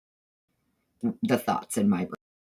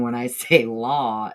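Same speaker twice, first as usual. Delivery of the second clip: Southern drawl; slower than usual. Shown as a demonstration. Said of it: "the Southern drawl that's on it".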